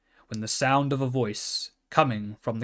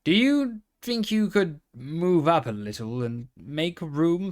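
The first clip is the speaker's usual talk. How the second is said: lightly voiced pony, courteous and eager; a small pony asking nicely, pitched a bit higher; polite pony; 4 semitones higher than usual. Pony asks the carousel horse to make room, lightly voiced and polite. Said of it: "as politely as he could".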